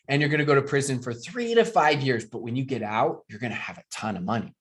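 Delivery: a touch of mock villainy; sarcasm. Coach jokes to his team about the pyramid scheme question, sarcastic. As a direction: play the crook, tongue in cheek. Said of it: "This is sarcasm".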